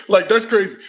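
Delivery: laughing through the words; can't hold back a laugh while saying it. Real, not acted. Laughing to the stream about his Spanish.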